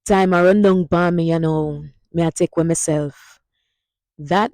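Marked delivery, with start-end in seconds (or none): 0.1-3.4 Jamaican Patois sentence. Shown as a demonstration. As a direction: demo line in Jamaican Patois. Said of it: "Hear that?".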